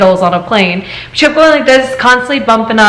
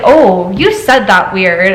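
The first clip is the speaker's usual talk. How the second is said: mocking tease; 3 semitones lower, slower than usual. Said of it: "kept making fun of the way I said".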